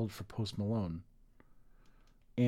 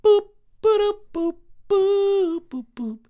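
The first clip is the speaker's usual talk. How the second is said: toy robot voice; 7 semitones higher, 6 dB louder than usual. Pretend. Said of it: "I am a robot".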